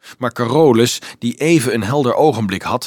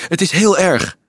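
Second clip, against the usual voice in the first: higher, urgent cry; calling out; 6 semitones higher than usual. A narrator's reading. Frank bringing bad news, calling out. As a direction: raise the alarm. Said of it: "riep hij".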